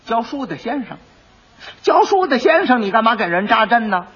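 high, rising disbelief; incredulous magistrate. Acted. Magistrate catching the quack's lie, incredulous. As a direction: echo his words in disbelief.

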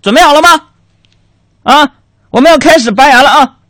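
high, loud, mock-gentle doctor voice; gentle dentist. Dentist about to pull the patient's tooth, mock-gentle. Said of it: "大夫就温柔的说".

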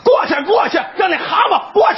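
mock heckler shouting; heckling shout. Rude audience member jeers at the actor, shouting. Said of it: "有一观众真缺德呀".

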